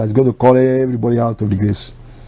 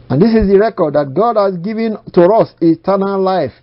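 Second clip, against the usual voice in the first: raised, declaiming Bible reading; scripture recitation; 5 semitones higher than usual. Real, not acted. Preacher reading John's epistle, declaimed. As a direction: proclaim the verse to the congregation.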